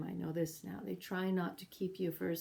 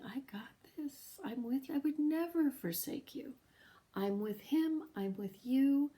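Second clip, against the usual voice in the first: reassuring voice; 7 semitones higher than usual. Retold or imitated. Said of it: "love was telling me".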